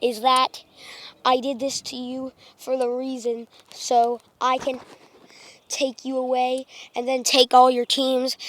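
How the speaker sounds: steady monotone robot voice. Acted. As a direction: speak evenly like a machine. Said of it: "I'll go back".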